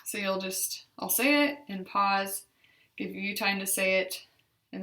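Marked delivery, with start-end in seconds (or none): none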